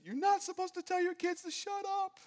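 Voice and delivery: high, loud imitation of a child; scolding kid. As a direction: put on a squeaky kid telling off a parent. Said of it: "and one kid".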